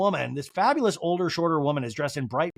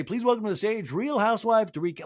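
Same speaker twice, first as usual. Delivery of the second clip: higher announcer voice; 6 semitones higher than usual. Pretend. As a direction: announce it like a stage host. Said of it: "wouldn't you say".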